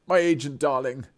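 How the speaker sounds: lightly hammed theatrical darling; a hint of a luvvie. Streamer mocks showbiz talk, lightly hammed luvvie. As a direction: toss it off like a luvvie actor.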